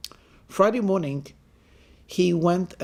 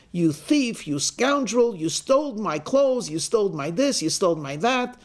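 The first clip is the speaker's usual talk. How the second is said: staged accusation; 4 semitones higher than usual. Acted. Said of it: "he stages this big argument".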